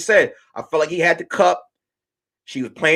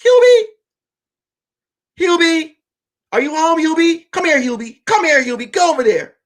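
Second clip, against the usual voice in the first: a mocking doting wife calling her man; wife calling her husband home, lightly mocking. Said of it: "she's like".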